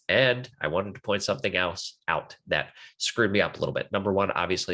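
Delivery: stuffy, blocked-nose voice; talking through a stuffed-up nose. Real, not acted. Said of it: "it sounds like I'm holding my nose".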